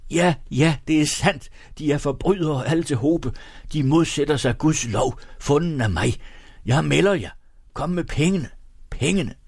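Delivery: high, agitated stream of accusations; tearful shouting. A narrator's reading. Weeping Egholm accuses them all nonstop, high tearful shouting. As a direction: keep crying out in acted high-pitched distress. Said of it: "mens han i et væk råbte".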